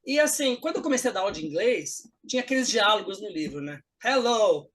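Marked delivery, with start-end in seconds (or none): 4.0-4.7 stilted textbook greeting; students reading aloud. Retold or imitated. Pupils read the dialogue from the book, stilted reading. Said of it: "os alunos pegam o livro e lêem".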